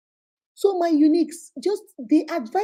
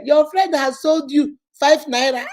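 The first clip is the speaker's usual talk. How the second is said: gleeful punchline; 3 semitones higher, 4 dB louder than usual. Real, not acted. Gleeful punchline before laughing.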